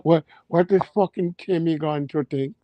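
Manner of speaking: a light mock Scottish brogue, Braveheart style; hammed-up Highlander rant in a Scottish lilt; Scottish accent. Clansman scolding the chief Alaric, in a mild Scottish accent. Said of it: "That Scottish gotta come out".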